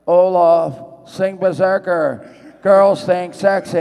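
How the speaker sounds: loud, slow shouted line; nervous first-take yell. Acted. First scene filmed, nervous actor yelling his line. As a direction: belt it out stiffly, first day on camera. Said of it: "I was like".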